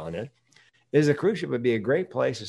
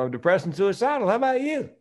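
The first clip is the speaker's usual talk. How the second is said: deadpan blunt reply; 10 semitones higher than usual. Retold or imitated. His own blunt answer, retold.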